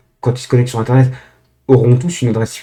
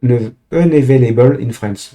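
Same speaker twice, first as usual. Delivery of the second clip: English read with a French accent. Real, not acted. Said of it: "Désolé pour, euh, mon accent".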